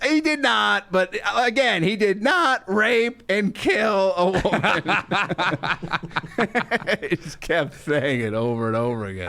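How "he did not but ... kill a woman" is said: imitating Gilbert. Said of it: "he's like".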